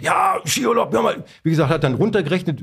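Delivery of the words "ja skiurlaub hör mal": lightly voiced, higher-pitched brush-off; mock protesting phone voice; imitating a singer. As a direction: wave the objection away, pitched up. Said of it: "rief der Roberto an".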